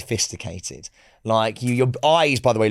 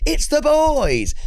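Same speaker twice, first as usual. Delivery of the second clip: put-on drawn-out, much higher hype shout of the boys; host hype call; 4 dB louder, much slower than usual. Imitating the host announcing them on stage. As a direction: stretch it like a compère hyping the crowd. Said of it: "but let's just say he is".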